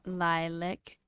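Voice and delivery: lilac as "lie-lick"; second syllable of lilac like "lick"; own pronunciation. Shown as a demonstration. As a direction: say lilac with a reduced ending. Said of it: "Is that the way I say it?".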